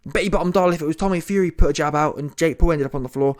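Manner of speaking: ordinary delivery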